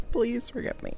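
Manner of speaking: laughing through please forgive me. Real, not acted. To viewers missing the piping, a laughing plea. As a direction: beg forgiveness while giggling.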